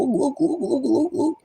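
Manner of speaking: high, eager repeated look; excited pointing. Retold or imitated. People spotting the sky, eagerly calling look. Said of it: "And they go".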